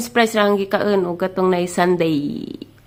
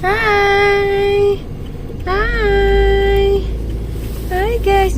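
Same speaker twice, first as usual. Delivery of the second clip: squeaky bright hello, pitched way up; high-pitched greeting; 10 semitones higher, much slower than usual. Real, not acted. (taas kaayo nga tingog nga nangumusta)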